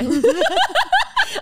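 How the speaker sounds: high, loud burst of laughing; real laughter. Real, not acted. Friend reacting to her calling herself a name, helpless laughter. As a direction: crack up at a friend's joke.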